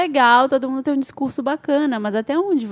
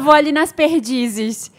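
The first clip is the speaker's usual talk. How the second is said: mock quote; slower than usual. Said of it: "e quem fala".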